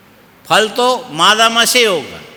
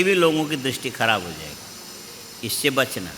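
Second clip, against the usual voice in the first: soft, low-pitched gentle explaining; gentle counsel; 5 semitones lower, 8 dB quieter than usual. Acted. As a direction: quietly counsel a child, voice dropped low. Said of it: "बच्चे को बैठा के समझाया जा सकता है". (धीमी, नीची आवाज़ में बच्चे को समझाना)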